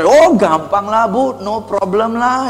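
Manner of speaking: mock-breezy reassurance, drawn out slowly; cheerful dismissal. Shown as a demonstration. Salesperson belittling a stressed customer's problem, cheerful. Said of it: "Tidak boleh pakai nada yang ceria".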